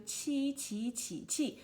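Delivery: chi said four times, once in each Mandarin tone; tone drill. Shown as a demonstration. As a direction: drill chi through the four tones slowly. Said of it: "when we read something like this".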